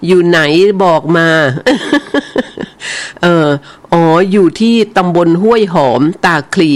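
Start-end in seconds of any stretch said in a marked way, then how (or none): 1.3-3.2 teasing laugh. Real, not acted. Teasing a caller for his location.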